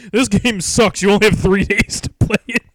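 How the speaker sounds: mock complaining friend; whiny friend impression. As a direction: friend mocked for complaining about a game. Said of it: "I like your excuse, like".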